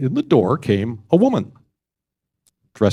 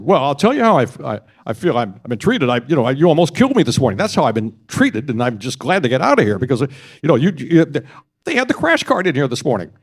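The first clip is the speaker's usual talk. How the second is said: raised, agitated retelling of a grievance; heated, exasperated patient; indignant complaint; 4 semitones higher than usual. Retold or imitated. Jerry complains about his treatment.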